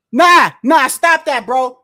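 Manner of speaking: loud frustrated protest at the screen; angry yelling. Real, not acted. Fan shouting at the boxer on TV, angry. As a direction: shout it at the ref.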